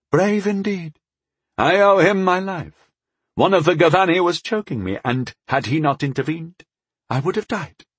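high-pitched lordly voice, grateful; grave elven lord. Acted. Rescued lord praises the brave knight who saved him, high and stately. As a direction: play a high-voiced lord acknowledging a debt.

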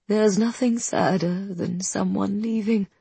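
put-on slow, small childlike sadness. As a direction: speak like a hurt little child. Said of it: "her voice almost childlike".

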